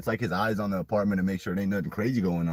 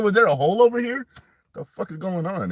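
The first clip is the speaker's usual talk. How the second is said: retold confusion; 12 semitones higher, 6 dB louder than usual. Retold confusion while falling.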